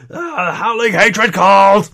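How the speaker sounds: slow, high-pitched bellowed cry; very loud shouting. Acted. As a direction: yell it out like an alarmed bugbear mob. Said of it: "they are very loudly saying".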